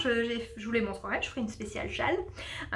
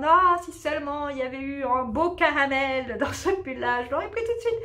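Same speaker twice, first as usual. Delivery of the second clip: wistful shopper. Acted. Knitter imagining herself spotting a sweater in a shop, mock wistful. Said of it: "quand on verrait en magasin".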